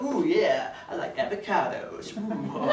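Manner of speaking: badly faked cool, with lingering oohs; trying to be cool. Comic trying to impress a date, badly faked cool. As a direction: show off a niche interest as if suave. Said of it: "then I'll try and be cool".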